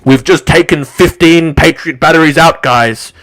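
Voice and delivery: forceful mock bragging; Kim dot com. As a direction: announce it as a lumbering, coping boaster. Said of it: "this lard monster goes".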